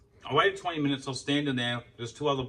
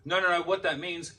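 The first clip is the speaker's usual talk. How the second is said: imitating the clerk; 3 semitones higher than usual. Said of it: "he's saying".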